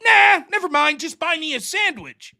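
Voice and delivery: exaggerated brush-off; mock dismissive. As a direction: wave off the offer mockingly, half-shouted. Mocking his dismissive reply.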